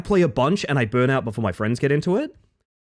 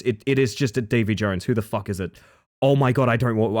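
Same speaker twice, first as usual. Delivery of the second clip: normal talking voice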